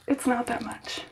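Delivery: calming herself down, barely voiced. Real, not acted.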